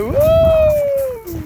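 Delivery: high squeal of delight; excited squeal. Real, not acted. Squeal at the hornet costume.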